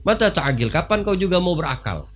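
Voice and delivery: sing-song the insult back at the king; mocking madman. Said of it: "dibalas sama dia". (ejekan tinggi orang gila)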